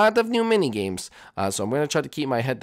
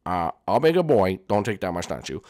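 Jeffy voice; 6 semitones lower than usual. Acted. Jeffy answers his parent, low sulky kid voice. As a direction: mumble it like a stubborn kid.

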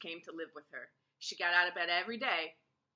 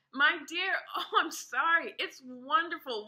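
higher, louder laughter through words; laughing; 8 semitones higher, 5 dB louder than usual. A narrator's reading. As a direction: laugh helplessly while speaking. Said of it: "started to laugh".

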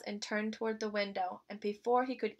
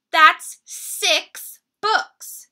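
high, eager cub voice; sweet little bear cub; 8 semitones higher, 12 dB louder, much slower than usual. Acted. Little Brown Bear's voice.

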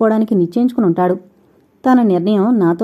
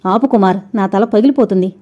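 pained plea. Acted. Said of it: "కణతలు నొక్కుకుంటూ అంది".

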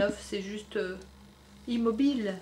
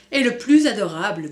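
cow moo; 7 dB louder than usual. Acted. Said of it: "meugla Valentine".

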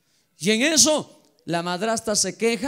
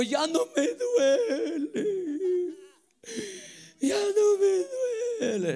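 voz llorosa, aguda y lenta; llorando; 11 semitones higher, 4 dB quieter, much slower than usual. Retold or imitated. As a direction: imita el llanto de alivio de la madre. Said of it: "estaba llorando". (la madre sanada, llorando de alivio)

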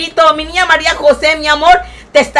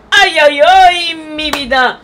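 delighted ay ay ay; 4 semitones higher, 4 dB louder, slower than usual. Real, not acted. Delighted cry at a viewer's message.

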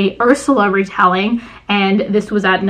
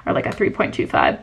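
whispered aside; 4 semitones lower, 8 dB quieter than usual. Real, not acted. Whispered revised rating.

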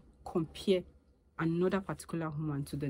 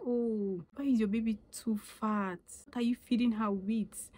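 higher, prying busybody voice; higher mock-concerned busybody; nosy onlooker; 5 semitones higher than usual. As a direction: imitate a nosy woman judging a fat baby, pitched up. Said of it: "you be like".

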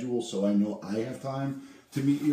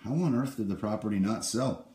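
bright, friendly salesman on the phone; upbeat cold-call pitch. Acted. Realtor cold-calling an expired-listing owner, upbeat sales pitch.

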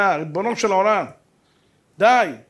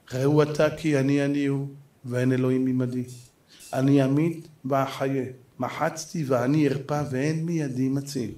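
solemn verse; 7 semitones lower, 5 dB quieter than usual. Retold or imitated. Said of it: "אומר הקדוש ברוך הוא".

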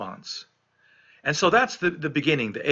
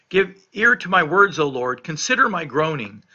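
pleading cry; 3 semitones higher, 5 dB louder than usual. Acted. Pastor reads the psalmist's plea aloud.

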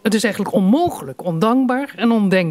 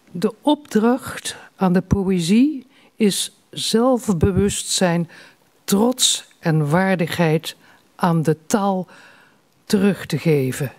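slow, measured reading with pauses between phrases; deliberate recital of a poet's written note; solemn quotation; slower than usual. Acted. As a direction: read it out slowly, giving each phrase room. Reads out poet's note on poetry.

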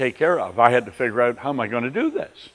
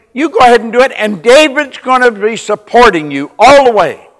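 loud, higher, confident pitch to the wife; emphatic retold phone call; 8 semitones higher, 11 dB louder than usual. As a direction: sell it to her on the phone.

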